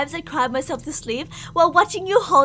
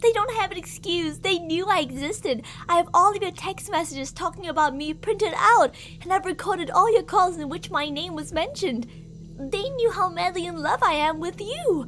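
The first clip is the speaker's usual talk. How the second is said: a possessive captor's sweet, menacing voice; obsessive lover. Acted. Captor sweet-talks the darling they kidnapped, creepy and possessive. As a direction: croon to your darling while threatening the captive.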